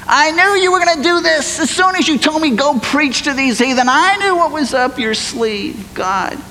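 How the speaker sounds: indignant complaint. Acted. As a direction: throw it back in God's face. Jonah complaining to God.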